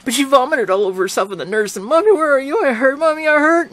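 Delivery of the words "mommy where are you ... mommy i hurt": put-on high, pleading little-girl cry; a hurting child calling for her mother; child calling mommy. A narrator's reading. Sick girl in hospital calling for mommy, high and pleading.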